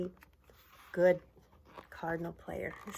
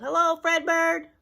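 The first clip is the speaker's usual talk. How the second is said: cheerful hello; 9 semitones higher, 9 dB louder than usual. Acted. Guessing what the umpire yelled.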